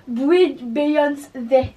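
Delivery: put-on slow, drawn-out French-accented English; mock English accent, very slow. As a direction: stretch the English words in a bad English accent. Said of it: "accent, t'as peur".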